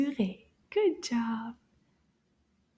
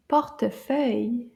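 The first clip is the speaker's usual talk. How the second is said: portefeuille said quicker, run together; a little faster. Shown as a demonstration. Teacher asks it a little faster. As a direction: speed up portefeuille. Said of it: "And a little faster".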